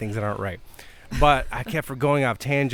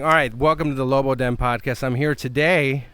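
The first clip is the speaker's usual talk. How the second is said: news anchor voice; 3 dB louder than usual. Acted. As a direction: read it like the evening news. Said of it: "Wow, I sound like a news anchor".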